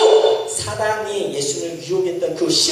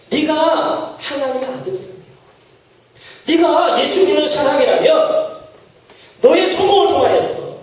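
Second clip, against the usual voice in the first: higher, coaxing dare; a hint of the tempter's goading; 4 semitones higher than usual. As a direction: tempt the listener with a sly challenge. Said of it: "이렇게 이야기합니다".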